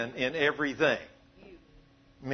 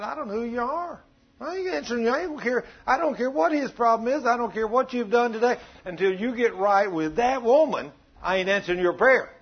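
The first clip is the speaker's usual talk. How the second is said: higher-pitched, insistent rebuff; God's stern refusal; 5 semitones higher than usual. Acted. God turns away a man wronging his wife, stern refusal. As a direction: refuse him flatly, building in force.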